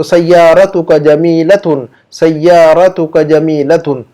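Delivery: slow, careful Arabic model sentence; slow model reading. Shown as a demonstration. Teacher reads the Arabic example slowly to the class. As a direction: spell it out slowly for students.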